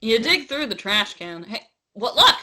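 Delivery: lightly attempted New Zealand character voice; half-hearted film character impression; Korg. Reading game text on co-host's request, tentative impression. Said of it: "Read, read this as Korg".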